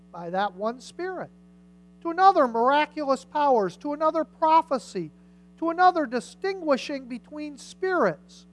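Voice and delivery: emphatic public Bible reading; scripture reading. Acted. Preacher reading spiritual gifts to the congregation, emphatic scripture reading. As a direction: read out the list item by item, stressing each gift.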